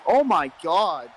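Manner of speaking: slow drawn-out shout of disbelief; excited shout. Real, not acted. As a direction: stretch it out in amazement. Shout after big spot.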